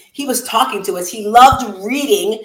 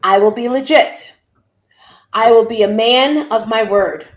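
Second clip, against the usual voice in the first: slow, with long pauses between pledges; solemn recitation of the son's creed; reciting a creed. Acted. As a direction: read each pledge like a vow. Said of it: "The Molly Gaines Creed goes like this".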